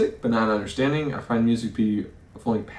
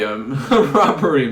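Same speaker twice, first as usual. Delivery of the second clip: laughing; 4 dB louder, slower than usual. Real, not acted. Laughing reading of game event.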